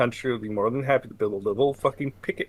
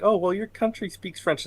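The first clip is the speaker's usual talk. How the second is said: mock French flirt; 11 semitones higher, 5 dB louder than usual. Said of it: "they're like".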